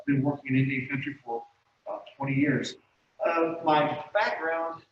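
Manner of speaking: muffled behind a face mask; talking through a mask. Real, not acted. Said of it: "kinda hard to talk with the mask on".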